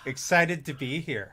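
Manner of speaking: slow, sarcastic show of excitement. Real, not acted. Co-host tells host she is glad to join, sarcastically. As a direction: drag it out with obvious sarcasm. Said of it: "you feel the sarcasm coming off of that".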